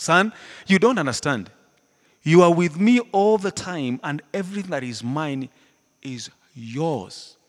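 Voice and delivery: a touch of the tender father. Retold or imitated. Father to his older son, lightly voiced and warm. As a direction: plead gently like a patient father.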